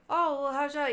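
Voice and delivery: gushing friendly small talk; super friendly. Retold or imitated. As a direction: imitate an overly friendly bartender. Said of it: "just being super friendly".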